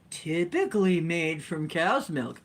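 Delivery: playfully dramatic article read, swooping pitch. Pretend. Vlogger reads butter article to viewers, dramatic reading. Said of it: "I think I'll read it dramatically".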